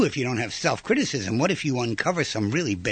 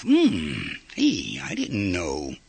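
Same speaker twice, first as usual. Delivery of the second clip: musing discovery; 6 semitones lower, slower than usual. Retold or imitated. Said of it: "Now you say to yourself".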